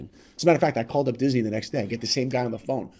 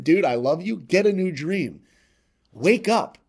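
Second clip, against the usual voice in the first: friend's advice; 5 semitones higher, 4 dB louder than usual. Retold or imitated. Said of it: "what you would have told him as his friend".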